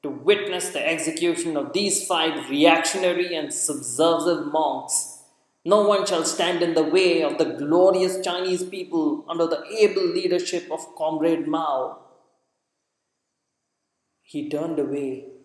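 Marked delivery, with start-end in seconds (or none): 0.0-12.0 stern governor. Acted. Governor addressing the crowd through a microphone, stern and declamatory. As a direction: declaim like a party official at a rally.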